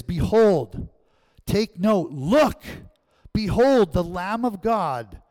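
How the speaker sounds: loud, drawn-out proclamation; proclaiming. Retold or imitated. John the Baptist announcing the Lamb to listeners, loud proclaiming. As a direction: announce it to the crowd, slowly. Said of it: "he's proclaiming something".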